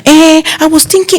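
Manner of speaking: high, wheedling eh I was thinking; scheming guest. Retold or imitated. Uncle starting to ask a favour, wheedling. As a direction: ease into a request.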